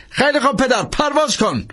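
high, urgent call; urgent Langdon. A narrator's reading. Langdon urging the priest to fly, high urgent call. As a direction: push him to take off.

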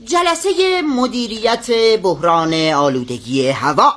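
slow, ceremonious announcement; pompous, measured official heading; formal agenda reading. Acted. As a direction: read it out like a solemn meeting secretary. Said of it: "منشی جلسه دستور کارو بخونم".

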